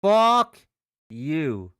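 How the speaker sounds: angry shout. Real, not acted. Trader cursing the falling stock, loud furious shout. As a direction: blast it out at the chart.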